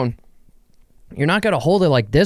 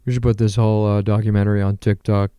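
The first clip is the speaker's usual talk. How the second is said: business exec; 4 semitones lower than usual. Retold or imitated. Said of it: "no business person is going".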